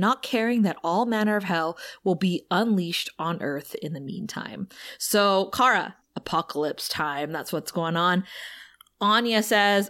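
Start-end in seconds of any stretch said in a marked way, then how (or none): none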